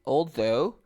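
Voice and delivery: although with a voiced TH. Shown as a demonstration. Teacher models word for student, although with TH. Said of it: "Tiene las, la".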